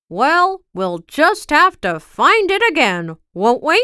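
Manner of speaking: rally her spirits brightly; Mister Happy cheering up Miss Giggles, upbeat; encouraging Mister Happy. Acted.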